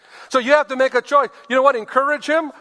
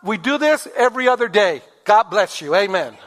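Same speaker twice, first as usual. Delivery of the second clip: sweet praise. Shown as a demonstration. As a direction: cheer him on sweetly. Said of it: "Just say".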